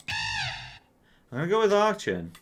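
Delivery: high, slow squeaky guess; squeaky slow announcement; high silly voice. Real, not acted.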